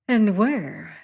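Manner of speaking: high fluting sailor, mocking; high-pitched voice. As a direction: tease the beaten man in a high voice. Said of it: "smiling at me".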